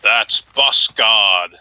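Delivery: very slow, lightly voiced God; a hint of a divine voice, slow; God speaking. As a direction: drag it out like a lofty deity. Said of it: "says God".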